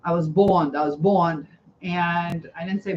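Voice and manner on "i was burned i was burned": put-on "bond" for "burned", the R dropped as a child would; imitating a kid who can't say R; childhood mispronunciation of burned. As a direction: say "I was bond" with no R sound, like a little kid. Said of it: "I remember telling people I got bond".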